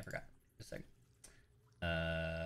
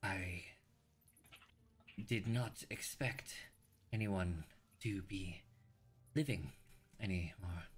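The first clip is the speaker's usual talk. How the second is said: raspy dying voice; 3 semitones higher than usual. Acted. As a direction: rasp out last words from the grave. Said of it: "you hear a, uh, raspy voice".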